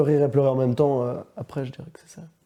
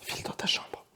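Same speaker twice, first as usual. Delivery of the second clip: contained anger; 15 dB quieter than usual. Acted. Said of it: "une colère intériorisée".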